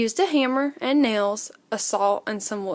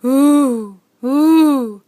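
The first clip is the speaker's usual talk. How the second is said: long, eerie hooting wind, louder; wind sound; 2 semitones higher, 7 dB louder than usual. A narrator's reading. Narrator voices the night wind for Little Owl. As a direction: moan it like wind in the trees. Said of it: "came the sound again".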